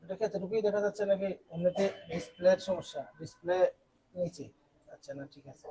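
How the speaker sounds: low, soft murmur, fading away; quiet aside. Real, not acted. Teacher breaking off to check the display, quiet aside. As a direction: drop the voice and check half to yourself.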